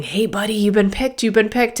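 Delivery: a touch of gushing over a lucky dog; excited shelter worker. Acted. Shelter worker telling a dog it's been picked, mildly excited. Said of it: "this very excited human that's happy for them".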